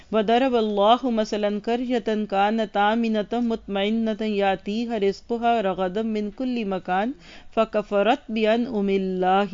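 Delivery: steady recited Arabic, unhurried; Quranic recitation. Acted. Teacher reciting Surah Nahl to the class, devout. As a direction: recite the verse with reverence.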